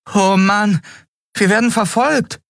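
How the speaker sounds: put-on high-pitched excited boy's cry; boy calling out. A narrator's reading. Boy to the others about pursuers, calling out. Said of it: "rief der Junge aus".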